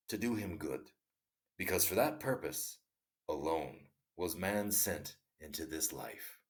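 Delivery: measured storytelling read; story narration. A narrator's reading. Narrator reading a Tolstoy tale to listeners, measured storytelling. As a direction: read the tale aloud, unhurried.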